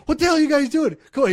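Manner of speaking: high, loud exasperated boss yell. Retold or imitated. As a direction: bark at lazy workers to get moving. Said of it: "He would, like, yell at us".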